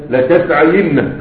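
لتسعين said very slowly, the ya with kasra and the nun doubled: latas'ayinna; teacher modelling لتسعين as latas'ayinna, unhurried; slow demo. Shown as a demonstration. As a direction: stretch لتسعين so every vowel is heard. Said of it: "خلي بالك شوف الحركات".

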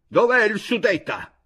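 loud, high shouted question. A narrator's reading. Chojnicki looking for the Sudeten man, shouting. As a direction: call out loudly for him. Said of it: "gridò Chojnicki".

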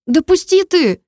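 coughing out. Acted. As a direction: squeeze it out while coughing. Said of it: "кашляя выдавила девушка". (выдавливая сквозь кашель)

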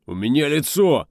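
high, loud, indignant retort; snapping back. A narrator's reading. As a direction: snap back at the officer, offended. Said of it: "огрызнулся нарушитель порядка".

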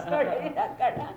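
chuckling through the words; laughing. Real, not acted. Laughing at own remark. (笑いながら)

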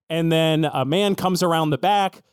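ordinary talk, nothing marked

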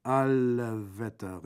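loud, drawn-out exclamation of amazement; astonished bandit. A narrator's reading. Bandit finds the second body, astonished. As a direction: call it out slowly, dumbfounded. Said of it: "rief Brandolaccio verblüfft".

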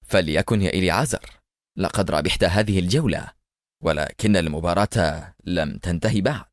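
low, steady stern vow. Acted. Adham vowing to Eliezer as police arrive, low stern. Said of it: "وقال في صرامة".

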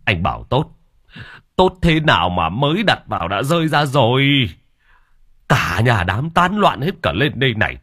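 father still annoyed, demanding a replacement coffin. Acted. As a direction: grumble your demands with rising irritation. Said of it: "vẫn còn bực".

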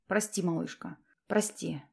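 soft, gentle pleading sorry; a quiet tender sorry to his sweetheart; tender apology. A narrator's reading. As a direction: apologise softly to your girl.

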